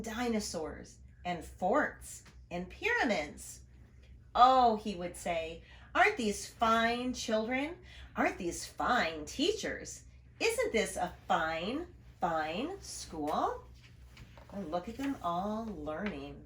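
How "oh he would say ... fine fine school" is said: a proud, beaming principal, lightly voiced. Principal praising his fine school, lightly proud.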